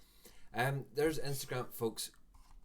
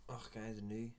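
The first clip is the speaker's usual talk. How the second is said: Scottish accent; 5 dB quieter than usual. Shown as a demonstration. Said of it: "my Scottish accent comes out more".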